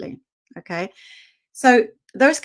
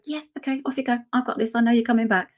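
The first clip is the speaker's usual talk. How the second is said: light, higher easygoing dog voice; the dog waving its owner off, voiced lightly and higher; calm dog voice; 3 semitones higher, faster than usual. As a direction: voice the dog, breezy and unbothered. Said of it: "They're never gonna go".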